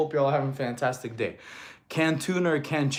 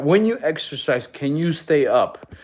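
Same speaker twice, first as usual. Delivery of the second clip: pointed reread; 6 dB louder than usual. Shown as a demonstration. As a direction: read "When you exercise, can you stay up" deliberately, stretching the second half. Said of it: "Literally reread that".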